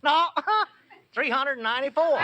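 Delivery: bursts out laughing, high and loud; laughing shout. Acted. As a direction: crow the answer through a laugh. Abner gleefully corrects Lum's guess.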